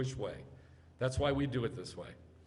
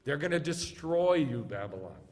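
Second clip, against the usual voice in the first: mock alarmed Babylon.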